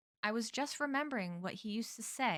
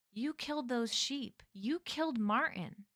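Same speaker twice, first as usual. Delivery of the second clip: raised-pitch accusation; accusing; 4 semitones higher than usual. Acted. Boy confronts the killer, accusing. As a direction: press the accusation home.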